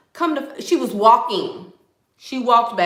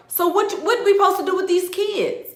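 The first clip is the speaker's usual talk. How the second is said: higher, exasperated question; exasperated sister; 11 semitones higher than usual. Retold or imitated. Sister demanding what to do with the kids, exasperated. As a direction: demand it of her, fed up. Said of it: "the sister was like".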